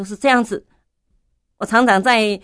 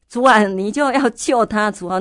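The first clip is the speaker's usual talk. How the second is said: a retold cry, louder and higher; crying out to God; 4 semitones higher, 4 dB louder than usual. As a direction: call on the Lord in alarm. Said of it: "那时候我就跳起来". (惊慌地大声呼求主)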